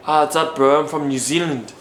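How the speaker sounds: amateur New Zealand accent; Kiwi accent. Shown as a demonstration. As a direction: try a casual Kiwi accent. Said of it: "What about Kiwi?".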